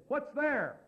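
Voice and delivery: imitated blurted question, pitched high; nosy, too-public question; loud voice. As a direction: call it out in a high voice. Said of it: "he said in a loud voice".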